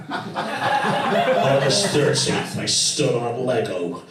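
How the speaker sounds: lightly voiced intense, aggrieved diarist; a mock grave diary entry, punched out in bursts; grumpy diary-writer. Comic imagining a rock singer's angry diary, mock-grumpy.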